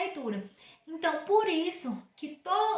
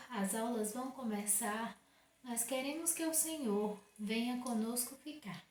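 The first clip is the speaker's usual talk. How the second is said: class prayer; 4 semitones lower, 5 dB quieter than usual. Acted. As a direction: pray along softly with the kids.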